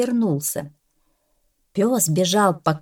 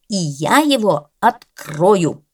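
determined vow; 4 dB louder, slower than usual. Acted. Cat vows to train dog.

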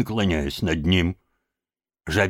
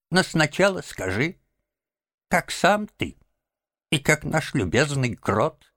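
feeble, high-pitched little voice; weak little squeak; 8 semitones higher than usual. A narrator's reading. Sick Toad thanking Rat, weak squeaky voice. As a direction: squeak it out weakly, sinking between phrases. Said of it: "слабый голосок пропищал".

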